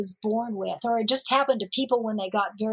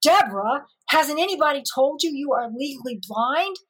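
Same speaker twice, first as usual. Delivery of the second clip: a mock stern doctor, rising at the end; a hint of a stern doctor, louder on the last line; 3 semitones higher, 3 dB louder than usual. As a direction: retell the doctor's scolding half-seriously. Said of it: "very sternly".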